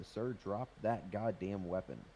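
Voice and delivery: slow, firm officer order; police command. Pretend. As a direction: spell out the order slowly. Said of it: "I'm gonna tell him to".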